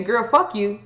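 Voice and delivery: put-on "Girl, fuck you." with the weight hammered onto "fuck", falling and final; harsh and hostile. Shown as a demonstration. Showing viewers the nasty way, with a hard "fuck". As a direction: spit out "Girl, fuck you." and mean it, leaning on "fuck". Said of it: "It's not the same as saying".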